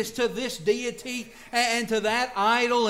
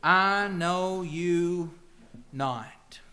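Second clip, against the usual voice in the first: stern dismissal; much slower than usual. Acted. Bridegroom rejecting the virgins.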